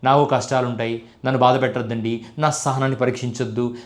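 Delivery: a hint of a wounded movie star; mock cinematic dialogue. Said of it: "ఇలాంటి cinematic డైలాగులు".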